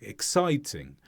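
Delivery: "Exciting" stressed on the middle syllable, falling; one clear beat in "Exciting", second syllable. Shown as a demonstration. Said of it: "one stress on si".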